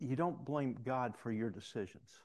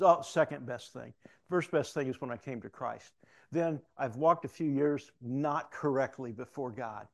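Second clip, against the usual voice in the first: retold inmate's lively testimony, a touch louder; animated; 5 dB louder than usual. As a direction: recount it as the eager convert, mildly animated. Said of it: "he becomes so animated".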